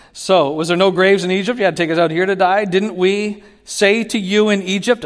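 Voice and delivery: preacher voicing the Israelites' complaint to Moses, mock whiny and loud; complaining Israelites.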